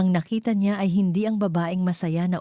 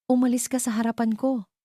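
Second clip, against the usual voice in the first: cold; 8 semitones higher than usual. Acted. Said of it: "malamig niyang sabi".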